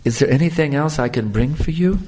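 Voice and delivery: sweet voice. Retold or imitated. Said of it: "in the sweetest voice you could ever imagine".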